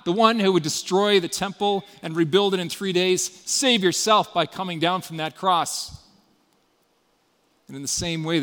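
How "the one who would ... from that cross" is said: louder, sneering taunt; taunting crowd. Retold or imitated. Crowd shouting insults at the crucified man, taunting. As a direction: jeer at him to save himself. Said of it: "they were yelling insults at him".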